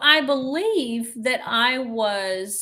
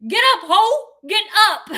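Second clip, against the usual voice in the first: higher, louder mock scream; retold scream; 9 semitones higher, 8 dB louder than usual. Belinda hosing Amy, a mock scream. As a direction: yell it while hosing her down. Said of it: "she was screaming".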